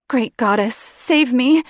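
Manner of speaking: Sarah dazed and frightened, crying out; desperate cry. A narrator's reading. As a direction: cry out for help.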